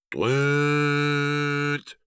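high trumpeting toot; cartoon elephant honk. A narrator's reading. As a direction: blare it like an elephant herd. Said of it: "antworten die Elefanten".

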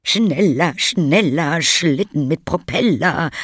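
cheering on. A narrator's reading. Little lady cheering Lilly on the sled, loud. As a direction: egg her on down the hill. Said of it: "feuerte die kleine Dame Lilly an".

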